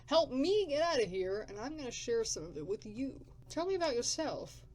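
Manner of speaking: gruff drifter. Acted. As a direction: bark it like a grumpy survivor.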